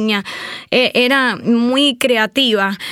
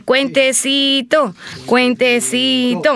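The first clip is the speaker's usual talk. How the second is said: drawn-out nickname; much slower than usual. Retold or imitated. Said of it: "La gente me dice".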